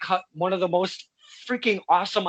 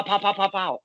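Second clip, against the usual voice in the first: mock gunfire. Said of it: "You both can go like".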